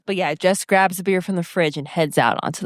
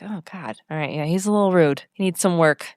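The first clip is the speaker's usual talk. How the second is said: unbothered; 4 semitones lower than usual. Pretend. How she would react to a rude teen, unbothered. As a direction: play it down, barely reacting. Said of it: "I would just be like".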